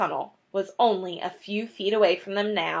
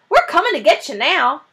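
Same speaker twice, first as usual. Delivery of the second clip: yelled; 6 semitones higher, 4 dB louder than usual. A narrator's reading. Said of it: "yelled Bunce".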